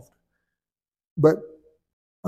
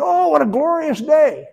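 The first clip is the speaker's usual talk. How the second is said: high, beaming cartoon pig voice, much louder; happy pig cheering the day; cheerful Pig; 11 semitones higher, 6 dB louder than usual. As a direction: sing it out like a gleeful cartoon pig. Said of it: "Pig ... saying".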